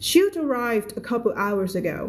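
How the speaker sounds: each word read out very slowly for the class; slow read-aloud. Shown as a demonstration. Teacher reading to Thai students, very slow and clear. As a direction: read it slowly so learners can follow.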